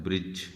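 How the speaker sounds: "ब्रिज" ending on j, no d; silent D. Shown as a demonstration. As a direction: say "ब्रिज" for bridge with the D left silent. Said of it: "डी को silent कर रहा है".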